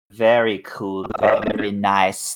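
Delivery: slightly low, drawn-out 1960s Liverpool band-style accent. Shown as a demonstration. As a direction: have a go at a Liverpudlian band member, losing it by the end. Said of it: "That's my Beatles accent".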